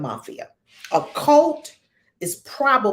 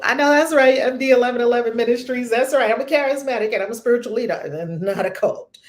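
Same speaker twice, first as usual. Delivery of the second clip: high, loud, proud self-praise; hammed-up boastful ministry leader; mock cult leader boast; 3 semitones higher, 5 dB louder, faster than usual. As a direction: puff up like a preacher praising himself. Mocking a self-proclaimed leader.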